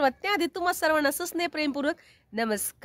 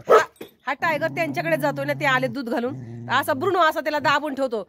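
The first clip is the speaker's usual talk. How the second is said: ordinary talk, nothing marked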